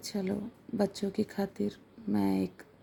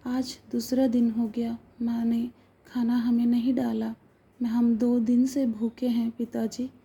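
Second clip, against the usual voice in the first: lightly voiced child, a bit louder throughout; child explaining; 2 semitones higher, 4 dB louder than usual. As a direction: tell it like an earnest little boy pleading with his father. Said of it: "बाबू बोला". (पिता को समझाते हुए भोला बच्चा, हल्की ऊँची आवाज़ में)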